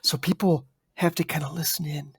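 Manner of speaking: slightly hushed, inviting delivery; gently dropped volume. Shown as a demonstration. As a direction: soften so they have to listen in. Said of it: "speak a little quieter".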